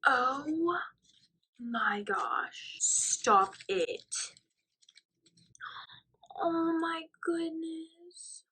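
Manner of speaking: high, breathy whisper on the verge of tears; can barely speak, close to crying; choked whisper. Real, not acted. Friend moved to tears opening Zoe's gift, choked whisper.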